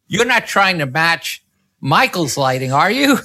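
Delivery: rising to a high, incredulous accusation; mock accusing editor.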